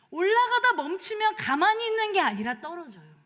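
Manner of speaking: 올라가다 punched high and loud; stress on falling. Real, not acted. Pastor to congregation, stressing 올라가다 loudly. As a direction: hit the word 올라가다 hard, then fall.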